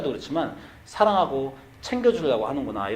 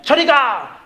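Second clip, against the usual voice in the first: much higher, louder, fast furious yell; big yell; 11 semitones higher, 8 dB louder, much slower than usual. Retold or imitated. Exhausted pastor screaming at his son on Saturday. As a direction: explode at the boy to get away. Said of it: "소리를 지른 다음에".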